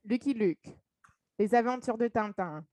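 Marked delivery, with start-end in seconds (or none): 1.4-2.6 Les Aventures de Tintin said in French; French pronunciation. Shown as a demonstration. Listing childhood shows in native French. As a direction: keep the French r and nasal vowels. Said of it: "what I watched when I was a child".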